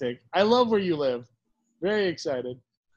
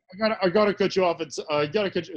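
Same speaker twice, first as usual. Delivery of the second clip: lower, manly imitation of Rob; deep masculine voice; 3 semitones lower, faster than usual. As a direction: puts on a deep, manly voice for his cohost. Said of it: "I don't know why I'm sounding so masculine".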